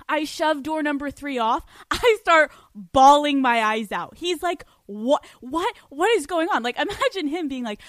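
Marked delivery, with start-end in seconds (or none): 4.9-6.6 imitated bewilderment, pitch climbing; startled mock confusion; bewildered partner. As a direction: stammer it out, baffled and startled.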